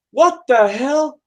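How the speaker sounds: high, slow, drawn-out disbelief; baffled outburst. Acted. Customer hearing about the rains, baffled disbelief. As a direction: stretch it out in bewilderment.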